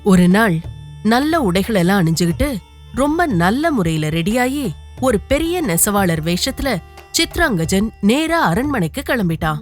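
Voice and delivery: ordinary delivery, nothing marked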